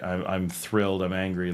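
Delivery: subdued, level statement of feeling; low-key and contained; understated emotion. Shown as a demonstration. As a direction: keep thrilled and angry equally muted. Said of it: "where everything's just this very, like".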